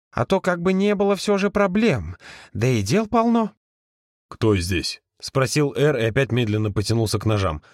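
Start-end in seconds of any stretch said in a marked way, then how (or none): 0.1-3.5 lightly voiced fussy old spirit; hurried, fussing spirit; fussy ghost voice. Ghost's put-on voice. 4.3-5.0 a low, wary growl of a question; low menacing question. Acted.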